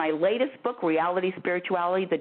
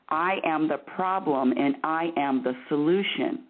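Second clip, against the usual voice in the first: firm, deliberate coaching demonstration; pushy, bossy; 2 semitones lower than usual. Shown as a demonstration. Bossy host showing a caller how to say it, pushy. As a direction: state it bossily, each phrase spelled out. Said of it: "I am very, very pushy".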